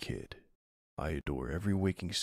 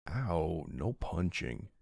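higher-pitched mock-hurt yelp; playful protest; 5 semitones higher, slower than usual. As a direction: protest a partner's playful punch. Playfully punched by partner.

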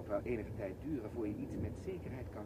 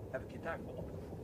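whispered reproach; 3 semitones higher than usual. Acted. Mock parental reproach.

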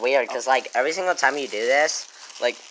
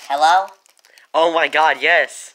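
helium voice; 4 semitones higher, 7 dB louder, slower than usual. Real, not acted. Helium works, excited.

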